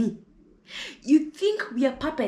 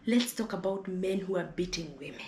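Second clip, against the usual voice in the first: whisper; 5 dB quieter than usual. Real, not acted. Aside to the audience.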